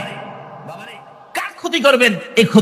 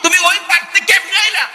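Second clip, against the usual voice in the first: high, astonished question; stunned son; 10 semitones higher than usual. Acted. Son stunned to see his mother, high astonished. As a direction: ask in sheer disbelief.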